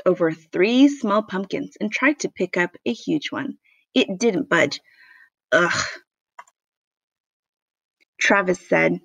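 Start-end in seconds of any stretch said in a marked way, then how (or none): 5.5-6.0 short, low effort grunt; acted lifting groan; straining grunt. A narrator's reading. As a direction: grunt as if heaving something heavy. Max strains at huge pumpkin.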